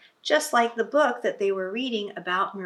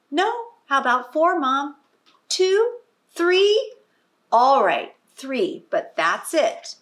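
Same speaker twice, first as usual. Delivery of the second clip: put-on high, eager little girl haggling; bargaining child; 6 semitones higher, 4 dB louder than usual. A narrator's reading. Olivia haggling with her mother over bedtime books, eager high voice. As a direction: climb higher with each plea.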